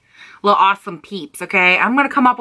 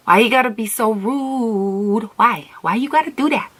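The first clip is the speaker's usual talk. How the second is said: hammed-up wounded whine, climbing higher; mock pleading; 4 semitones higher than usual. Vlogger begging herself to be kinder, mock pleading. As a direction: plead in a put-on hurt voice, pitch rising.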